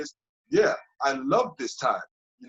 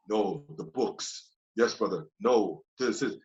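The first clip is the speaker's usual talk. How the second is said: lower, slow, a touch of a solemn preacher; a hint of his stern self; 5 semitones lower, slower than usual. Mocking the serious character he became, lower and slow. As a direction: lightly play the overly serious brother.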